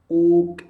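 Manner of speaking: "Kuk" with a loud breath burst at the end; bouncing qalqalah. Shown as a demonstration. Teacher demonstrates a qalqalah bounce. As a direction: pop the final k of "Kuk". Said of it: "ada bunyi qalqalah".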